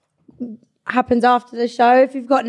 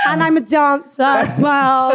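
laughing; 3 semitones higher, 4 dB louder, slower than usual. Retold or imitated. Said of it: "I was like".

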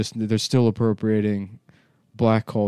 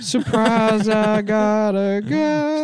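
high mock voice; 12 semitones higher, 3 dB louder, slower than usual.

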